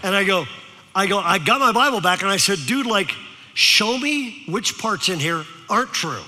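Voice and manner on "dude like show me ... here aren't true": mock Valley-dude challenge; Valley teenager. Speaker challenges teen over Bible, imitated Valley lingo. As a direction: lightly put on Valley-kid talk. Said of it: "decided to use his language".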